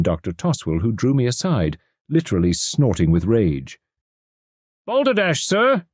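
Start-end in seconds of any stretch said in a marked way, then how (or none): 4.9-5.9 high, scornful outburst of the expert; angry exclamation. A narrator's reading. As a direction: spit it out in contempt. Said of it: "he exclaimed angrily".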